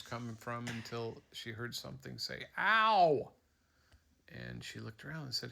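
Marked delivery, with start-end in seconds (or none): 2.6-3.3 sharp loud yelp of pain, much louder; a startled talking tree yelping ow. Acted. Dad telling his kid a story, the tree yelps in pain.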